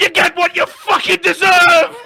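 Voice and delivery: high, slow laughing mock yell; mock triumphant yell. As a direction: ham up the big moment. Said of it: "hovering over the downvote button, like".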